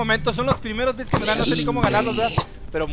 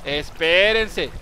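drawn-out plea; 4 semitones lower, much slower than usual. Retold or imitated. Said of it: "Yo les dije".

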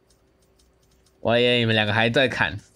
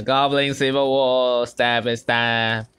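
announcer; much slower than usual. Acted. Announcing the battle title.

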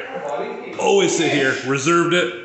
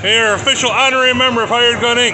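hyped announcer; 5 semitones higher than usual. Acted. Mock induction ceremony.

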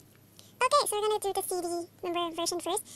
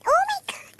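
high breathy whisper of delight; a gasped, whispered oh my god; breathless fan squeak; 13 semitones higher, 8 dB louder, slower than usual. Real, not acted. Sees a photo of a singer.

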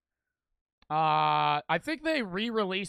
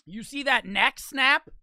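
excited; 5 semitones higher, 6 dB louder, slower than usual. Real, not acted. Shows off punch to chat.

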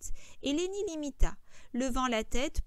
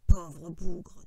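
gentle pity; 5 semitones lower, 8 dB louder than usual. A narrator's reading. George pitying absent Lenny to himself, gentle. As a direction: say it low, with pity. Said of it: "dit-il doucement".

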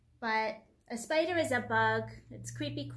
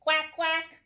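loud, high duck calls; duck quack; 5 semitones higher, 8 dB louder than usual. Acted. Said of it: "called the duck".

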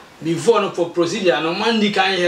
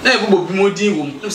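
laughing; faster than usual. Real, not acted. Laughs while telling it.

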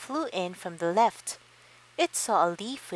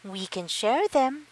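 friendly high voice; 6 semitones higher, 4 dB louder than usual. A narrator's reading. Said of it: "suggested the friendly ladybug".

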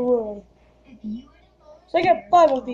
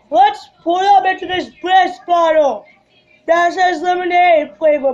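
loud; 4 semitones higher, 5 dB louder than usual. Real, not acted. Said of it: "try to be loud".

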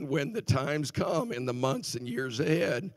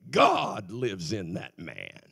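slow mirror declaration; 8 semitones lower, much slower than usual. Retold or imitated. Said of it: "look in the mirror and say".

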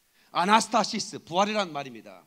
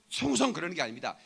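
usual speaking voice

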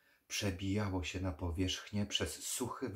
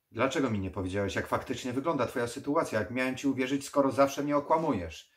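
fast, loud, higher accusation; angry accusation; 5 semitones higher, 10 dB louder, faster than usual. Acted. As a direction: fire the reproach at him quickly. Dragosani accuses the vampire.

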